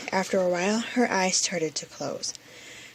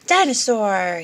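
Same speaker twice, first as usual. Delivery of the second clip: a mild mock growl, louder; 7 dB louder than usual. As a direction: growl the word like a toy dinosaur. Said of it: "he growled".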